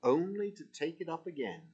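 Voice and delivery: scripture reading. Acted. Reads scripture aloud to congregation.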